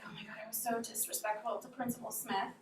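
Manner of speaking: worried. Retold or imitated. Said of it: "I started getting frustrated".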